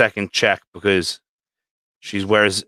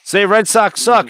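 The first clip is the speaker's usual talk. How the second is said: high, slow, taunting "Say Red Sox suck"; mock taunt; teasing dare; 11 semitones higher, 6 dB louder than usual. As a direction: goad him slowly. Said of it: "And I was like".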